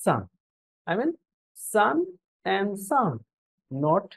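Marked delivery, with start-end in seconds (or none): 0.0-0.2 "সান" with an open, unrounded "a" vowel; corrected pronunciation. Shown as a demonstration. Teacher giving the actual pronunciation, "সান" with open a. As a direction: say "সান" like English "sun", mouth open. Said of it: "ঠিক পরেরটাও".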